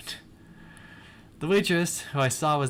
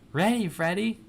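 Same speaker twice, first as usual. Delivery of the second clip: high, squeaky little chicken voice; 7 semitones higher, 3 dB louder than usual. A narrator's reading. The chicken answers Freddie on stage, squeaky voice. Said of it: "chicken said with a squeaky voice".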